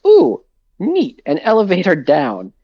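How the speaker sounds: high delighted squeal; cheerful, naive discovery; mock excited.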